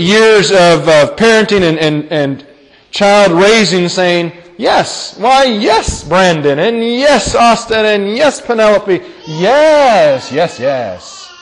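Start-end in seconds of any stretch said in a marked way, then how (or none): 4.6-11.3 mock-gushing parental approval; indulgent parent. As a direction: dote on each child in turn. Acted parent forever saying yes to children.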